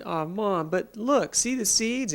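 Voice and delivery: put-on high-pitched coaxing child to mom; eager, smiling. A narrator's reading. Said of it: "held them out with a big smile".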